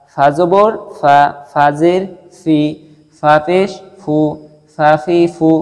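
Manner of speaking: ফা ফি ফু said slowly and clearly; teacher spelling out each vowel sign; slow recitation drill; slow letter drill. Shown as a demonstration. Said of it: "তারপরে আসি".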